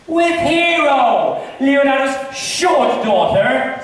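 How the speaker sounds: slow, high, laughing tease; laughing mockery. Benedick laughs at Claudio's love for Hero, slow and high. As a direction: drag it out through laughter.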